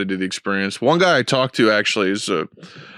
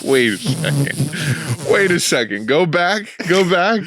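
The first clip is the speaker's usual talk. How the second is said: incredulous; 6 semitones higher, slower than usual. Retold or imitated. Incredulous self retold.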